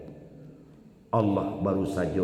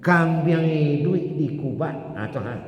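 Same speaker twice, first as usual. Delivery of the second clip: loud, raised declaration; full-force preaching; 6 semitones higher, 4 dB louder than usual. Real, not acted. Preacher driving home the pain of death, loud.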